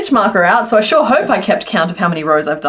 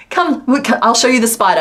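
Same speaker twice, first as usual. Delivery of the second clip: lightly voiced small child, a bit higher; a hint of an eager little kid; little girl voice; 4 semitones higher than usual. Retelling how a small child showed a spider, lightly voiced little girl.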